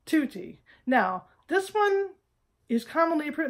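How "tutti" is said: tutti with a clean Italian oo; tutti, pure oo; Italian pronunciation. Shown as a demonstration. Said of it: "Number three".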